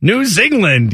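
"Zealand" pitched high as "Zing-land"; mock band-name mispronunciation. Co-host offering a band name, "Zealand" turned into "Zing-land".

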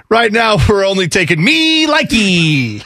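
slow put-on salesman voice. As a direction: play the dealer, deadpan. Acted salesman reply.

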